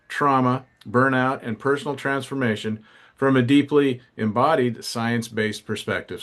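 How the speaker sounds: lively scripted guest introduction; polished show-opening read; podcast host introduction. Acted. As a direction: announce the guest with energy.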